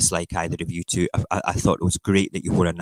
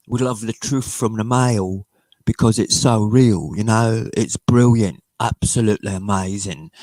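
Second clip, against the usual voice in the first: put-on voice of a fawning admirer; sarcastic gushing; 2 semitones higher than usual. Scottish streamer pretending to adore the Mail, sarcastic gushing. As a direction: gush with mock sincerity.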